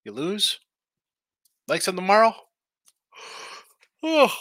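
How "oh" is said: real yawn slipping out; tired early-morning yawn mid-show. Real, not acted. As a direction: let "Oh" stretch into a yawn. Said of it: "Excuse me as I yawn".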